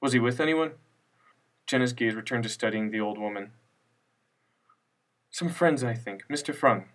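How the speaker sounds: a hint of a flustered grandmother; lightly voiced elderly widow, vague and dismissive; frail old widow.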